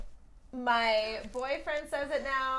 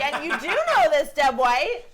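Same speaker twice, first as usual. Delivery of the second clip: laughing reply; 2 semitones higher, 7 dB louder than usual. Retold or imitated. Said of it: "And I'm like".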